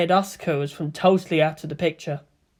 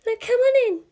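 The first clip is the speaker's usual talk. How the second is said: sweetly. A narrator's reading. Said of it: "she finished sweetly".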